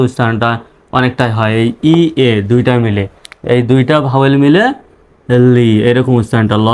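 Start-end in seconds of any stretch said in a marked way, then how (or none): 5.5-5.7 লি with a long "ee" vowel; দীর্ঘ ই-কার. Shown as a demonstration. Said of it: "দীর্ঘ ইকার লি". (লি-র ই-টা দীর্ঘ করে টেনে)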